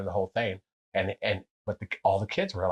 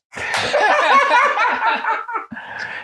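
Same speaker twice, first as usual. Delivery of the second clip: big laugh; 8 dB louder than usual. Real, not acted. Laughter after Egypt dice joke.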